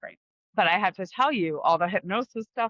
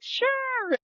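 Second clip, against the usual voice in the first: quoting friend. Retold or imitated. Quoting her girlfriend Erin.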